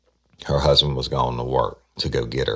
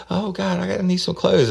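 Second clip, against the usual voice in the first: very high falsetto mock wail; hammed-up squealed begging; imitating pleading suspect; 3 dB louder than usual. Suspect begs detectives for clothes, imitated high-pitched wailing. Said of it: "she starts screaming".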